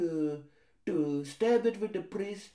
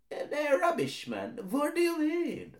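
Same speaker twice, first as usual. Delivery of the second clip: cocky roadman, a touch higher; defensive roadman brushing off a complaint; 7 semitones higher than usual. Acted. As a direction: shrug it off with street swagger. Street-slang character voice.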